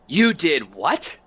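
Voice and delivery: slow, drawn-out stunned question; shocked disbelief. Acted. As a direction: let the news land, disbelieving. Stunned reaction to betrayal news.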